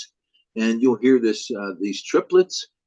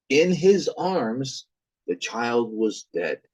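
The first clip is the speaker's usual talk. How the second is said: slow, solemn ballad narration; slow down toward the tragic end; grave narrator; slower than usual. Acted. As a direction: narrator telling the boy's death slowly. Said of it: "And the narrator says".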